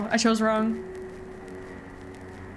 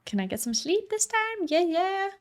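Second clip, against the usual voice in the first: higher, softer sleepy voice; mock sleepy passenger; 8 semitones higher, 5 dB quieter than usual. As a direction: whine for sleep in a put-on voice.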